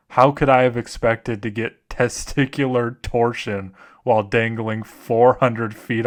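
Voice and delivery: mock-serious horror read with slips of laughter; subdued, deliberate scary-story delivery; story narration. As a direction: narrate it gravely, barely holding back a laugh. Reads horror stories aloud.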